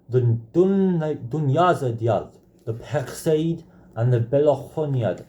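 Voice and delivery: titles in a rough Arabic accent. Real, not acted. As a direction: try an Arabic accent on the names. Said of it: "very off Arabic accent".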